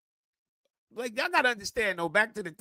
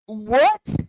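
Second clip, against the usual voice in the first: confused what with a sharp rise; baffled what; 3 dB louder than usual. Retold or imitated. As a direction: play it like you heard nonsense. Mock baffled reaction.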